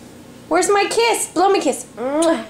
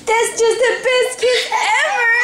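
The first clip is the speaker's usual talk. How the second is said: delighted praise; 4 semitones higher than usual. Real, not acted. Praising baby's kiss.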